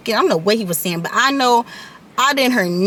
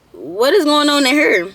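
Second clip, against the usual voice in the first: higher, drawn-out demand; alarmed mother imitated; 4 semitones higher than usual. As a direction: act out a mom walking in, baffled. Retold mother walking in on crying.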